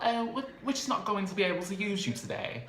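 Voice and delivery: high put-on woman's voice; mock-polite letdown. Donatella turning Zell away from the shoot, high put-on imitation. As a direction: imitate her, pitched well up.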